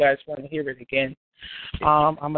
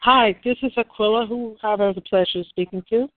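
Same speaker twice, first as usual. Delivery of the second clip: polite phone voice; 5 semitones higher than usual. Real, not acted. Caller switches to polite phone voice.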